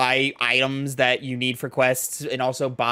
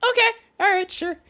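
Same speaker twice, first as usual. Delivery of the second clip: sarcastic squeak. Retold or imitated. Sarcastic retold reply.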